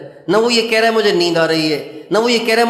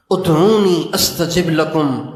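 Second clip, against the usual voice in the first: slow, drawn-out Arabic recitation; Quran verse recitation; slower than usual. Acted. Preacher quoting Allah's promise, slow recitation. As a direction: recite it measured, stretching the vowels.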